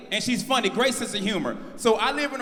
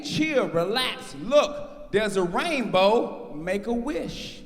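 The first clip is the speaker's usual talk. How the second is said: soothing daughter; much slower than usual. Retold or imitated. Daughter soothing annoyed dad.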